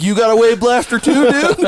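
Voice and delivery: high hopeful enthusiasm; eager. Retold or imitated. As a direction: gush like a fellow fan. Imagined eager question.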